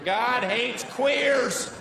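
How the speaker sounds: slow, high mock redneck chant; redneck protester. Comic playing a redneck picketer, slow hollering slogan. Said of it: "me pretending to be a right-wing redneck".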